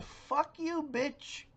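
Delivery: thought curse. Retold or imitated. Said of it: "I thought".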